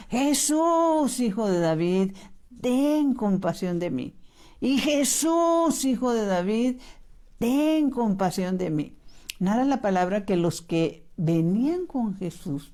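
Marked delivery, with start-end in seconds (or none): 0.1-4.1 mock crying out. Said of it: "y empieza a gritar". 4.6-9.0 higher, slow imploring call on Jesús; drawn-out pleading cry. Retold or imitated. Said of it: "y empieza a gritar".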